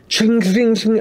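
high ringing chings; quick ringing clinks; imitated metallic clinking. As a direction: mimic silverware clinking together.

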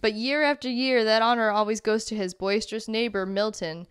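storybook read in put-on Boston; Boston accent. Reading a lobster book description aloud, put-on Boston accent. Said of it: "reading with that accent".

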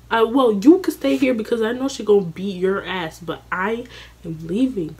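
high, loud, fast panicked babble; frantic girl rushing to leave. Retold or imitated. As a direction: scramble to get out in a hurry. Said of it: "I'm sitting here like".

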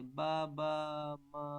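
"বা, বা, মা" in long, separated syllables; babbling demonstration. Shown as a demonstration. Teacher repeating babble example, "বা, বা, মা" drawn out evenly. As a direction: hold each syllable of "বা, বা, মা" evenly. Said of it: "babbling করে".

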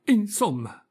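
mock shout. A narrator's reading. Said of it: "gridò Pinocchio".

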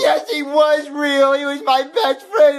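slow, tearful protest; crying. Acted. Boy insisting his lost friend was real, crying. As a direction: whine it out through tears. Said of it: "stop crying".

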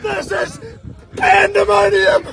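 high, slow exclamation; excited shout. Real, not acted. Commentator as the rod goes overboard, excited shouting. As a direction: holler it high and drawn out.

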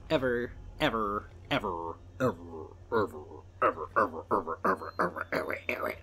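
fading ever ever. Pretend. Joking to viewers how he never understood, evers fading to a whisper. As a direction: let the evers trail away to a whisper.

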